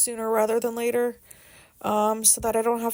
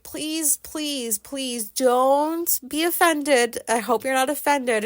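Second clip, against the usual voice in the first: pleading; 5 semitones higher, slower than usual. Retold or imitated. Begging partner not to be offended.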